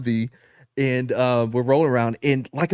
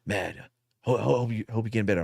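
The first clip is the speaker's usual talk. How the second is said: soft mock concern; 4 semitones lower, 5 dB quieter, faster than usual. General mock-kind to him.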